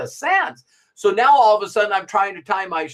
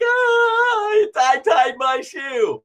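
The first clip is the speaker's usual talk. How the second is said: put-on proud child shout; 8 semitones higher, much slower than usual. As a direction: crow it out like a kid who just did it. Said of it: "And you're like".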